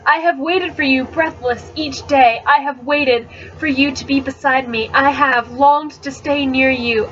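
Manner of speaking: measured, tender poem recital; lightly heightened verse reading. Acted. Reads a poem aloud.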